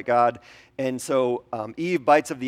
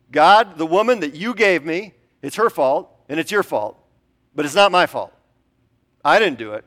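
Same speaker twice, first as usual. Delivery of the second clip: loud, higher defensive protest; whiny blame-shifting Adam; 4 semitones higher, 7 dB louder than usual. Acted. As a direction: insist loudly it's not your fault. Adam blames everyone, acted.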